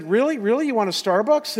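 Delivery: can't believe what he's hearing; incredulous. Retold or imitated. Pastor to his dying friend who wants coffee, incredulous.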